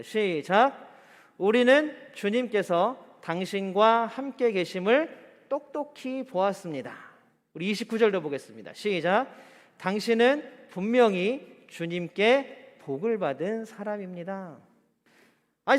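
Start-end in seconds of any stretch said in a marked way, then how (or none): 1.4-7.1 slow, measured verse reading; scripture read-aloud. Real, not acted. Leading congregation in reading scripture. 9.8-14.6 slow, measured verse reading; scripture read-aloud. Real, not acted. Leading congregation in reading scripture.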